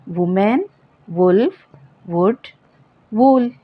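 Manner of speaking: वुमेन वुल्फ वुड with a short u. Shown as a demonstration. Teacher modelling short u words for students. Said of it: "छोटा ऊ pronounce करते हैं".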